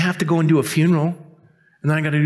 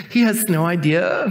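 knowing wife; 3 semitones higher than usual. Retold or imitated. Voicing mother's smiling aside in photo.

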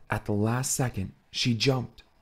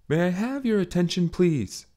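lightly voiced ship announcement; unconvinced automated voice; 8 semitones higher than usual. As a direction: announce without conviction. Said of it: "with far less conviction than the moment called for".

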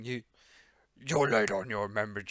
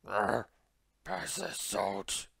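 bored Polar Knight; 2 semitones lower, much slower than usual. Acted. Polar Knight munching in the corner, utterly indifferent. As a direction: drone it out like you couldn't care less. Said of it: "Polar Knight does not give a damn".

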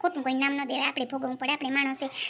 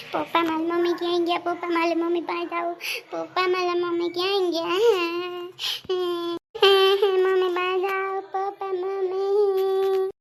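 put-on child pleading; 4 dB louder than usual. Child begging father for mother.

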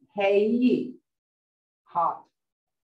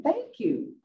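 high-pitched, heartfelt thanks; with feeling; 11 semitones higher than usual. Shown as a demonstration. Teacher comparing it to English thanks, full of feeling. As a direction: thank them with a big lift in pitch. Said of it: "You say the same way".

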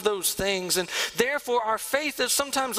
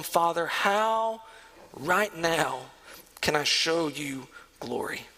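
earnest prayer; 4 semitones lower, slower than usual. Retold or imitated. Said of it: "Faith is asking God".

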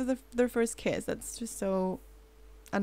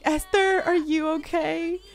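panicked call, pitched up and rising; freaking-out character; 4 semitones higher, slower than usual. Pretend. Gamer voicing a sim freaking out over his date, mock panicked. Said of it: "he's freaking out as well".

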